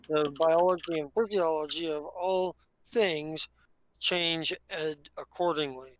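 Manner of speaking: devout scholar expounding a belief; solemn devout scientist. Acted. Plays a devout alien scientist.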